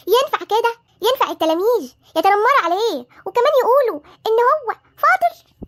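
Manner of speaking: indignant grandmother telling off the teacher; indignant complaint. Acted. Grandmother complaining to the teacher about bullied grandson, indignant. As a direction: scold with rising outrage.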